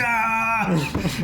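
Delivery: high imitated "ah" of freaking out; mock panicked cry. Retelling a man shaking someone off his leg, high mock cry. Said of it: "Started freaking out".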